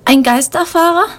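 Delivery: high, startled question; frightened. A narrator's reading. Little girl frightened by the word, a high startled question. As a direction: gasp it out, scared of ghosts. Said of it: "fragt Lena erschrocken".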